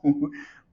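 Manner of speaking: a sudden real laugh, loud and high; embarrassed laugh breaking out mid-story; loud burst of laughter. Real, not acted. Laughs at own awkward secret.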